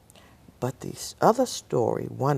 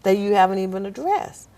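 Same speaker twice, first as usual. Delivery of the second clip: puzzled instructor; 9 semitones higher, 7 dB louder than usual. Retold or imitated. Instructors puzzled by her test.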